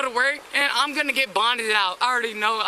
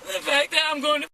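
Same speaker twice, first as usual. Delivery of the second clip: hyperventilating. Real, not acted. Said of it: "Why are you hyperventilating?".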